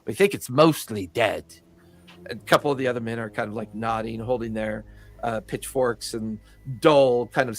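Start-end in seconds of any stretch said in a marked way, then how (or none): 0.1-1.4 townsman. Acted. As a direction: explain it as a simple farmhand. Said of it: "one of the men goes".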